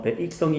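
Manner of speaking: 백성이 with separate 아 and 이 in 백; two vowels heard in the 백 of 백성이; split diphthong. Shown as a demonstration. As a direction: say 백성이 as ba-ik-seong-i. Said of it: "아와 이를 구분해서".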